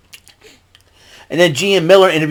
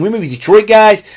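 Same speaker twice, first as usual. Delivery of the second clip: intense; 6 semitones higher than usual. Retold or imitated. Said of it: "Rhino got intensities".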